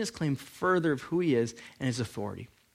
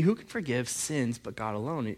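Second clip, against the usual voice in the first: softer, lower muttered thought; inner thought; 5 semitones lower, 7 dB quieter than usual. Retold or imitated. Scribes silently doubting Jesus, softer inner voice. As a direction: say it under your breath, as a private thought. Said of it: "They're thinking".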